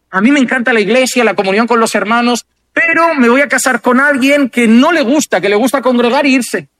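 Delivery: bright-eyed churchgoer explaining her plan; church-loving young woman. Pretend.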